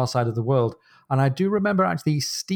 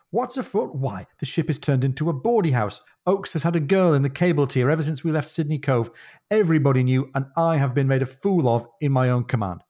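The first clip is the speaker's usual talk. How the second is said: Jack's indignation; 2 semitones higher than usual. Acted. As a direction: play an affronted captain venting his outrage. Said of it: "This is Jack".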